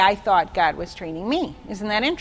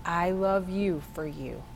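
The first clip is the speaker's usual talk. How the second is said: tender voice of God; 4 semitones lower, 8 dB quieter than usual. Retold or imitated. God speaking tenderly to her.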